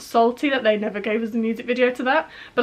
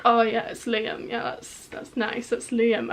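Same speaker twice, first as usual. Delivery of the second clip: mock nonchalance; 5 dB quieter, slower than usual. Fan pretending to be cool about seeing Liam, mock nonchalance. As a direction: play it casual, as if barely impressed. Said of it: "I'd be so uncool about it. I wouldn't be like".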